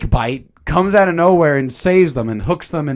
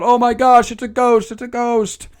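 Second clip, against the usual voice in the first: mock panic; 8 semitones higher than usual. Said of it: "So they scream again".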